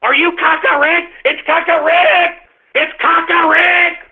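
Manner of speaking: lightly voiced mocking fan squeal. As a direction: ham up a gushing fan, high and eager. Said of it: "autists will be like".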